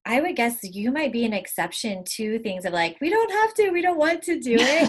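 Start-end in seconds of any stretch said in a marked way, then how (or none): 3.0-4.9 tag. Retold or imitated. Voicing a couple's open refusal.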